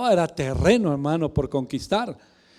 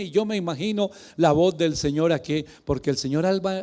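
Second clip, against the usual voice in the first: usual speaking voice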